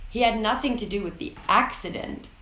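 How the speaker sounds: had made prominent, falling tune after it; stress on had. Shown as a demonstration. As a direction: put the weight on had. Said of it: "listen for stressed words".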